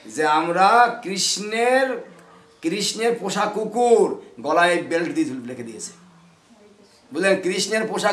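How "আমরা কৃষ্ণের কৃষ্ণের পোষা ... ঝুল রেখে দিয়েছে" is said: very slow, deliberate proud reply; proud comeback. Shown as a demonstration. Preacher models the reply to a mocker, slow and proud. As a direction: spell out the retort slowly, savouring it. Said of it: "তখন বলবেন".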